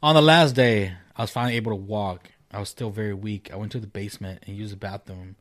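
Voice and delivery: measured reading with pauses between phrases; story read-aloud. Acted. Host reads a ghost story to co-host, measured read-aloud.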